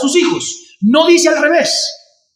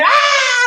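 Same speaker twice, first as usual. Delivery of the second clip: retold scream; 13 semitones higher than usual.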